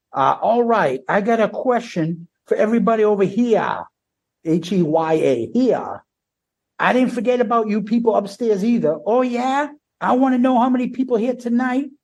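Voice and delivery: lightly voiced frontman greeting the balcony; imitating a frontman. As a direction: work the crowd like the frontman. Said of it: "this is what he says".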